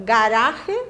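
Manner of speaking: ordinary talk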